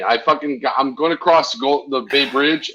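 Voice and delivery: ordinary talk, nothing marked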